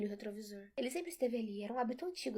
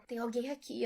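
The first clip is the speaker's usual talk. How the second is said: scared; 2 semitones higher, 5 dB louder than usual. Acted. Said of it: "como se tivesse com medo".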